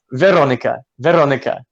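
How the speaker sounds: "Veronica" twice, R lightly rolled; careful Czech-style "Veronica", rolled "r"; tongue-rolled R. Shown as a demonstration. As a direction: practise "Veronica" with a tongue roll. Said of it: "you can do the tongue roll".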